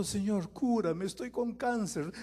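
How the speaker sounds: loud, high begging cries; high loud pleading to the Lord; desperate prayers. Acted. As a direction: plead like someone in desperate need.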